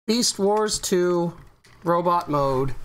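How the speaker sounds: slow, drawn-out announcer. Acted. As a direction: announce it like a big reveal. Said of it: "announcing the toy".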